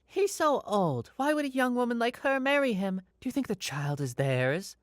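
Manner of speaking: high-pitched put-on woman's voice; gossiping woman. Woman remarks on a couple to her husband, high gossiping voice. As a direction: pitch it way up as a nosy onlooker. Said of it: "said loudly in Spanish".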